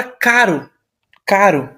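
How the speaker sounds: caro with a light single-tap r; soft, tapped r in caro. Shown as a demonstration. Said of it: "tem um som bem suave".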